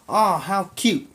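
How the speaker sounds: high mock coo over a pet; cooing wife. Wife picks up the turtle, high cooing. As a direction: gush like a sweet wife. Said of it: "she's like".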